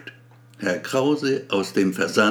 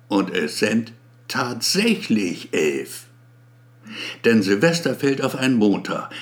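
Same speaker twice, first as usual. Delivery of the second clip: pompous speech. Acted. Abramski's speech to staff.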